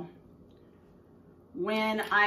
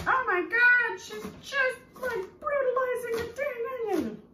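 high, mocking snooty chef voice; mock horrified chef; imitating a chef; 5 dB louder than usual. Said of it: "they're probably going".

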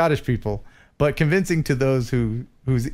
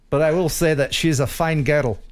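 a touch of a Scottish accent. Shown as a demonstration. Host teasing about his old drive-thru accent, light Scottish accent. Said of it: "I'm not gonna do it".

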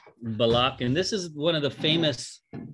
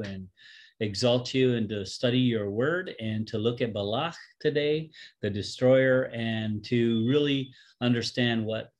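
prayer. Acted. Leads an opening prayer.

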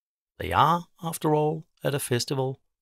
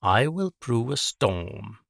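menacing witch; slower than usual. Acted. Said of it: "says Simma".

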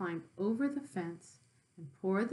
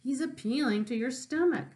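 very high goose voice warning; a goose telling the pig not to fall for it; 11 semitones higher than usual. Acted. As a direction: honk the warning urgently. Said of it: "said the goose".

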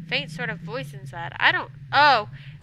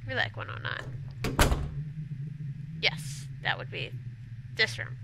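slow, hushed character voice; slow whisper; 9 semitones lower, 5 dB quieter than usual. Acted. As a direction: breathe it out slowly.

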